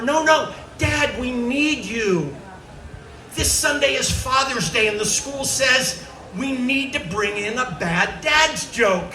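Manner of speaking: put-on high kid voice, eager pleading; child explaining the school task. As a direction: beg like a little kid with a school assignment. Kids pleading with dad.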